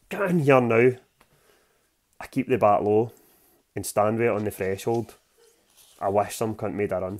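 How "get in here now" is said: clipped, tight-lipped mock command; a touch of a cross mum spitting it out; spat through firm lips. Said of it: "spitting out of firm lips".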